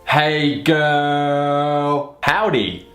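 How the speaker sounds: high, drawling southern greeting; over-exaggerated southern accent. A narrator's reading. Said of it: "in an over-exaggerated southern accent".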